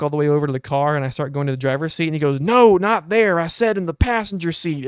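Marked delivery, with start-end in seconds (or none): 2.4-4.9 higher, louder imitation of a cross grandpa; mock exasperated scolding. Old man corrects his helper at the car, mock exasperation.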